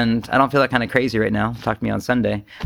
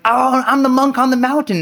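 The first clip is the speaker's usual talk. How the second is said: high, lofty mock monk on the mountain; 11 semitones higher, 3 dB louder than usual. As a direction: puff it up like a dreamy mountain sage. Mock grand monk self-image.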